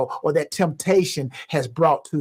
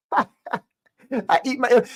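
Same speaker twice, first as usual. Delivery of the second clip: a lightly voiced small child, slow; little voice; 5 semitones higher, slower than usual. Speaker retelling the child's answer, lightly voiced small child. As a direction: quote the child in a small high voice. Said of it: "this little voice".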